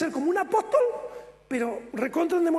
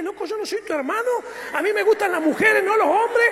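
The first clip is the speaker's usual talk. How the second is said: rising to a loud, offended protest; indignant protest; 3 semitones higher, 4 dB louder than usual. Retold or imitated. To the pastor who said he loves him, loud indignant protest. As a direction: push the pastor off, loud and affronted. Shoving away the pastor's affection.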